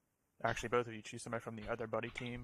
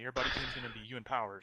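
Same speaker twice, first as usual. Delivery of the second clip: voice crack; faster than usual. Real, not acted. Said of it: "Was that a voice crack?".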